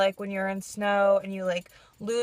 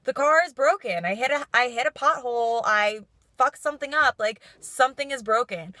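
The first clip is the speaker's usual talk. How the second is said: louder, raised mock griping; mock complaining; 3 semitones higher, 4 dB louder than usual. Vlogger showing how pointless griping about the car is, mock complaining. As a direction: list the troubles like a put-on complainer. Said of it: "sit here and complain".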